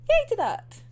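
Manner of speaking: high, bright yay; little cheer. Real, not acted. Fan cheering characters coming back, high.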